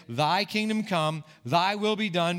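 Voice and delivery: slow, measured Thy kingdom come, thy will be done, halting on done; run-on recital, stopping after done. Retold or imitated.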